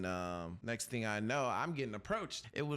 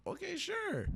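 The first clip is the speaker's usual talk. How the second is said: mock-polite okay; slower than usual. Agreeing to the girl's drink offer.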